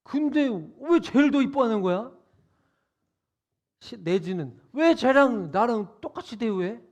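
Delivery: elder son resenting equal treatment; mock indignation. Elder son's grievance.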